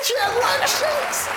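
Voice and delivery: very high, slow squeal of delight; excited squeal. Acted. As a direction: stretch it out in a thrilled squeal. Host echoes with huge excitement.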